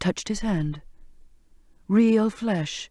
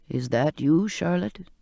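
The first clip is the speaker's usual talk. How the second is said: put-on old sailor's voice; 2 semitones lower than usual. Old cook asking Charlotte if it's her. Came a voice, his voice.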